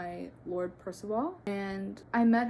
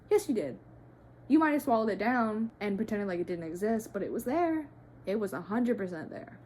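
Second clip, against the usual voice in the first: heated insistence; 3 dB louder than usual. Real, not acted. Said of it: "I'm getting a little heated".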